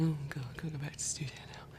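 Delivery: quick, soft, weary muttered complaint; reluctant groan. Retold or imitated. Imagining dreading the studio, fast weary mutter. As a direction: mumble it fast like dreading the chore. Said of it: "rather than going".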